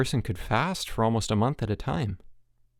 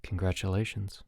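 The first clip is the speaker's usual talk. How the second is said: low, soft, dry; muttered sarcasm from the bunk; sarcastic mutter; 3 semitones lower, 7 dB quieter than usual. A narrator's reading. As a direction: drop it sarcastically under your breath. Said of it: "muttered a low voice sarcastically".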